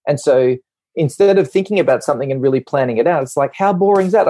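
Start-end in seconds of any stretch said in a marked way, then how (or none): 3.5-4.3 mock boredom complaint. Voices a restless activator.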